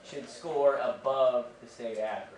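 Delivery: slow, drawn-out official pronouncement; pompous administrator. Retold or imitated. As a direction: spell out each word like a self-important boss. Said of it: "He's like".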